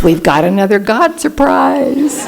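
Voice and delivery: a hint of a six-year-old, slow and laughing; mild playful child's voice, drawn out with a laugh; lightly voiced excited little girl. Granddaughter telling grandma about a God surprise, lightly childlike and laughing.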